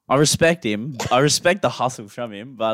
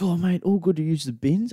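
lightly imitated Aussie bloke, pitched up; hell Aussie dude; 6 semitones higher than usual. Gardener asking the homeowner for the bins, lightly imitated Aussie dude. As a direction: put on a slightly higher Aussie tradie voice. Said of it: "he's, like, hell Aussie dude".

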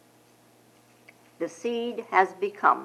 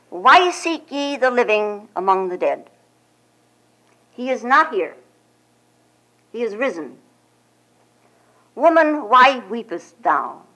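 ringing angels; 2 semitones higher, 6 dB louder than usual. Acted. Angels speak to Mary.

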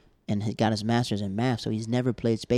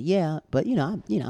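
excited; 6 semitones higher, 4 dB louder than usual. Retold or imitated. Comic invited to a show, answering in thrilled disbelief. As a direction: voice jumps up high, eager and a bit flustered. Eager reply to a show offer.

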